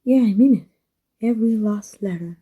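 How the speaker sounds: mean every word, half shouting; emphatic insistence. Acted. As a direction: press it home so they believe you. Insisting the confession is true.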